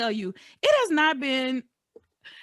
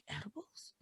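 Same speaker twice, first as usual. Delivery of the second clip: shocked mother; 22 dB quieter, slower than usual. Retold or imitated. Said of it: "she's like".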